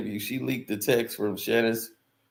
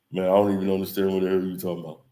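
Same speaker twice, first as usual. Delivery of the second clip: lightly voiced Shaq, lower and quick; Shaq impression; 5 semitones lower, much faster than usual. Shaq brushing off Shannon on the show, lower, fast and baffled. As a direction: rattle it off like a baffled big man. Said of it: "Shaq be".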